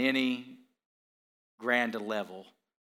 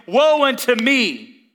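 woe unto me, much higher and louder, slow; loud preached woe; 13 semitones higher, 15 dB louder, slower than usual. Acted. Pastor to congregation crying Isaiah's words, loud and slow. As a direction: cry it out from the pulpit.

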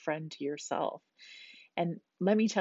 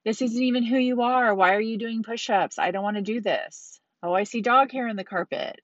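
higher, louder whining about the push-ups; whiny complaining; 4 semitones higher, 4 dB louder than usual. Retold or imitated. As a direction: grumble and moan through each rep. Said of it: "my old self used to say with every push-up".

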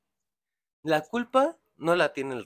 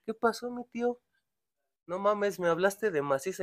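put-on much higher child's complaint; mock child voice; 8 semitones higher than usual. Boy complaining to his dad about the burger, higher child voice. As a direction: squeak it like a let-down little boy. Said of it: "Un niño dice".

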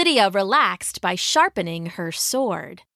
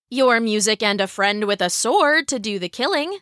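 snorting. Acted. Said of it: "Lydia snorted".

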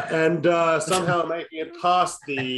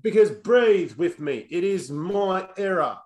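put-on terrible New Zealand accent; 3 semitones higher than usual. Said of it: "terrible New Zealand accent".

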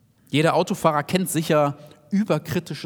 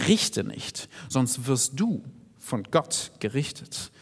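low, slow, stern judgement voice; preacher voices God's warning in a low slow voice; voice of God as judge; 4 semitones lower, 4 dB quieter, much slower than usual. Acted. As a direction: let it sound like the judge speaking, low and slow. Voicing God's judging words.

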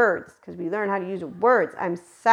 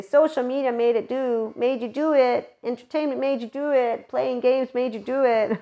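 higher, singsong mock accusation; mocking blamers, pitched up; mock blaming; 4 semitones higher than usual. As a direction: parody the people who point fingers. Mocking finger-pointers.

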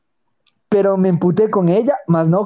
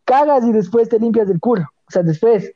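higher, fast, indignant tirade; retold angry rant; 5 semitones higher than usual. Retelling what he wanted to say to his friend, fast angry rant. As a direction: fire it off like you finally told him off. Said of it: "Y digo, "Care verga de ganas de decirle".

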